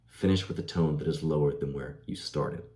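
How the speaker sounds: tone falls away to a low "started". Shown as a demonstration. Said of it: "You notice how I did that right there?".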